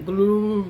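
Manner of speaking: imitated single gulp, "glu"; a drawn-out mock gulp; gulping sound. Shown as a demonstration. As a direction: mimic swallowing in one gulp. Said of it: "ninguém engole assim".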